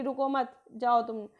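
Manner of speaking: "रुको मत" as one unit, then "जाओ तुम"; pause after मत. Shown as a demonstration. Teacher explaining the "go" reading, pause after "मत". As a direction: break after "मत" so "जाओ तुम" stands apart. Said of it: "आप जाओ".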